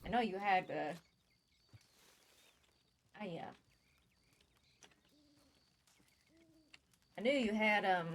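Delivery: over-the-top Southern cowboy voice; exaggerated southern accent. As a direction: lay the Southern accent on thick. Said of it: "Nice southern accent".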